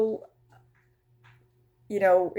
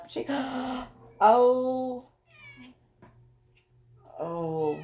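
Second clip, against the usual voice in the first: real startle trailing into a hushed oh; startled gasp; 6 semitones higher, much slower than usual. Real, not acted. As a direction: caught off guard by something alarming. Startled by the cat's sore.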